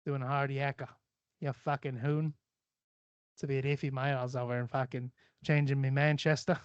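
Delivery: casual mock Aussie accent; string slang together like an Australian. Playing with slang for fun, put-on Australian accent. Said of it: "I do a lot of fucking, uh, accents".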